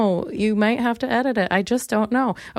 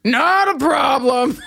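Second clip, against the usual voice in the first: slow, loud, brushing it off; mock casual shout of not a problem; mock breezy dismissal; 4 semitones higher, 3 dB louder, slower than usual. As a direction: wave her off cheerfully. Her own retold reply.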